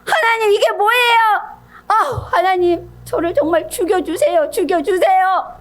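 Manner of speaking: high-pitched, despairing wail to God; hammed-up tearful protest; angry Jonah. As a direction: plead to die in a petulant fit. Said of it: "막 화를 내요".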